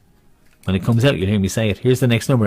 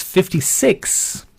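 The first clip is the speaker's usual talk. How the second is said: bingo caller; 7 semitones higher, much slower than usual. Acted. Bingo call drawn out high.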